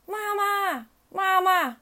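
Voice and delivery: high, sustained duckling voice; calling for mum. A narrator's reading. Ducklings trailing mother duck, high repeated calls. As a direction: call out "mama" in a high little voice. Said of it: "不停地喊".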